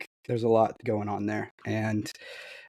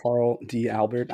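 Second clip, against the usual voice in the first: smoker's rasp. Real, not acted. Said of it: "sick, so if I sound like I've been smoking".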